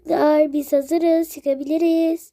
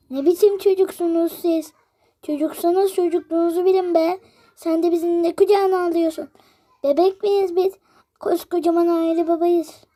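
scolding; 3 semitones higher than usual. Acted. Ebeveyn azarlıyor.

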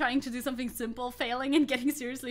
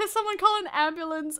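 laughing; 9 semitones higher, 6 dB louder than usual. Real, not acted. Laughing at own injury.

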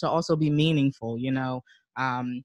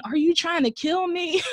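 mock road rage. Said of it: "feel such rage while driving".

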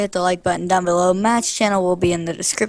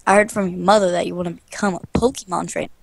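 quick, lightly voiced professor; Professor Oak; faster than usual. Professor chats to the aspiring trainer, lightly acted. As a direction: rattle off the game dialogue in character. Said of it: "Let's do his voice".

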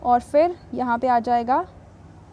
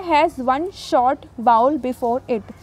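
slow, deliberate dictation of the English rule; slow rule reading; much slower than usual. Shown as a demonstration. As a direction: read the rule out word by word. Reads rule. (नियम धीरे-धीरे पढ़कर सुनाना)

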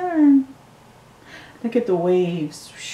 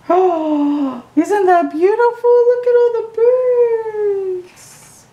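high, louder gasp of delight at the picture; delighted wonder; 13 semitones higher, 4 dB louder than usual. Real, not acted. Adult showing a child birds in a book, high delighted wonder.

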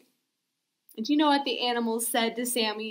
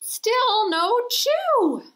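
disappointed; 10 semitones higher, 5 dB louder, slower than usual. A narrator's reading. Sneeze fails again.

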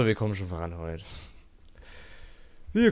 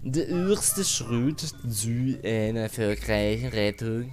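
mock Saxon accent; much slower than usual. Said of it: "Ah, das war Sächsisch".

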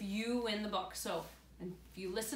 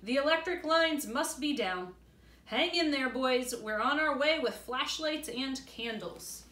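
calling dad; 4 semitones higher, 5 dB louder than usual. Acted. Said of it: "their dad called".

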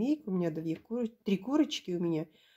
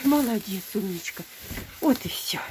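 squeaky praising a dog. Real, not acted. Praising the goat.

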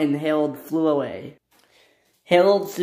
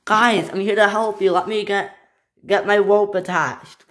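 high, loud rescuer's call; 5 semitones higher, 5 dB louder than usual. Acted. Harold arriving to help, high loud calling. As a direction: call down to those below.

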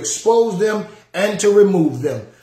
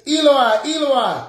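crying out; 6 semitones higher than usual. Acted. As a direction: call out like a man in agony. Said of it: "Jesus cries out in pain".

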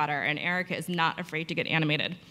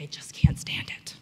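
whisper. Retold or imitated. Patient's answer, whispered.

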